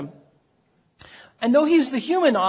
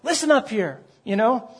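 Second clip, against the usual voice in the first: higher-pitched, firm self-exhortation; earnest pep talk to oneself, pitched up; David exhorting his soul; 4 semitones higher than usual. Acted. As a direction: lightly act out a man instructing his own soul. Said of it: "David is talking to himself, his soul".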